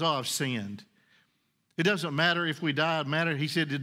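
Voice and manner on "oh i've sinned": repentant confession. Acted. Repentant cry voiced low.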